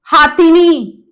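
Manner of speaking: हाथिनी said slowly with a long हा; wrong form shown. Shown as a demonstration. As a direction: show हाथिनी as the form to avoid. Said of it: "हथनी।". (गलत रूप: हाथिनी, धीरे से)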